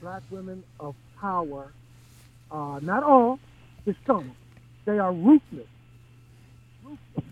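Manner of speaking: muffled voice, as if through a mask. Real, not acted. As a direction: speak muffled behind a face mask. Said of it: "you sound like you're speaking through a mask".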